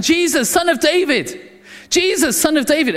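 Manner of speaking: a blind beggar calling to Jesus, mild shout. Acted. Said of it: "Bartimaeus is shouting".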